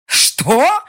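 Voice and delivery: high, loud shocked shout. Acted. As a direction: yell in disbelief. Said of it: "пришёл черёд кричать Глоссару".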